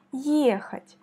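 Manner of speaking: Ехать whispered, stress on the first Е; whispered demo. Shown as a demonstration. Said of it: "C'est la première voyelle Y qui est frappée". (Ехать chuchoté, accent sur le е)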